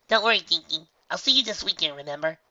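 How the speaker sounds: high, warm motherly voice; reassuring mother. A narrator's reading. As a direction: comfort her daughter gently.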